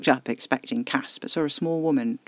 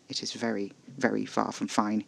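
barked; 3 semitones lower, 5 dB quieter than usual. A narrator's reading. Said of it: "he barked".

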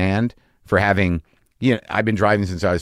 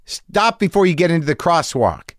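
much higher mock alarmed stop, stop; panicked girlfriend; 9 semitones higher, slower than usual. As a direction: imitate her frantic braking orders. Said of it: "And she goes".

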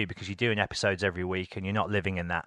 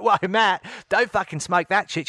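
alarmed warning; 10 semitones higher, 4 dB louder than usual. Retold or imitated. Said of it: "She's Australian".

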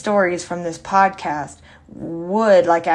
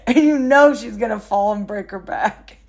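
laughing; 4 semitones higher than usual. Real, not acted. Laughing describing sister.

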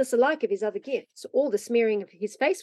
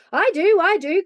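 put-on high, loud, insistent boy; eager cry; 9 semitones higher, 8 dB louder than usual. A narrator's reading. Joel begs for breakfast, crying out eagerly. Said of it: "cried Joel".

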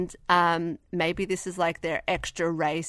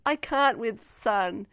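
lizard complaint; 3 semitones higher, slower than usual. Acted. Still voicing the pet lizard.

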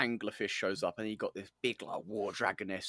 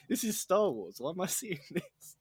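outraged viewer; 9 semitones higher than usual. Retold or imitated. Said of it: "it's like".

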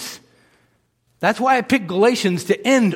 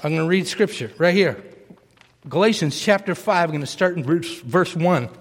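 cracking, strained voice; 2 semitones lower than usual. Real, not acted. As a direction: read through a voice that keeps cracking. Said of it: "my voice is still cracking".

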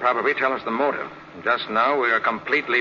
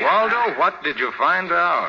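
Waldo drawn out high and sharp, then a slow, pointed question; impatient prodding; 6 semitones higher, slower than usual. Acted. Detective pushes a rambling helper for the facts, impatient. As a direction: press him to get to the point. Nick loses patience with Waldo.

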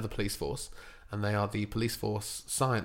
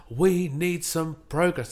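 boss voice; 6 semitones higher, 3 dB louder, slower than usual. Retold or imitated. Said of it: "and he says".

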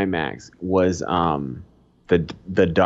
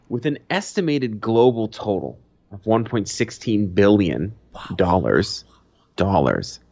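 steady read-out news delivery. Acted. Reading box office news to the listener, steady news read. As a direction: read it like a headline.

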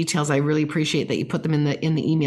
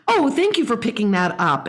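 enthusiastic praise; 5 semitones higher than usual. Shown as a demonstration. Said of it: "turn up the volume".

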